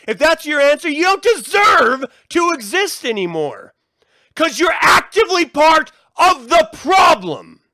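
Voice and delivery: high, loud furious yelling; shouting in real anger. Real, not acted. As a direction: blast the lazy non-voters. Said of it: "I don't know why I'm getting all heated about this".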